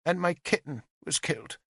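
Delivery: put-on high, small child's voice, reciting; a nine-year-old saying rehearsed words; young girl. Little witness telling the lords her loss, childlike recital.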